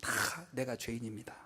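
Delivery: low, soft and slow; a humble church member's quiet admission; humble confession. Retold or imitated. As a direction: confess it meekly, head bowed. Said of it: "이런 교회예요".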